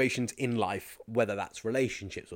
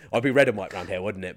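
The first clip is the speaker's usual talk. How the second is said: normal talking voice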